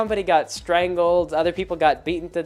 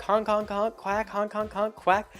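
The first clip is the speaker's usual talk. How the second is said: honking swan; 5 semitones higher, 4 dB quieter, slower than usual. Retold or imitated. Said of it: "talking like this".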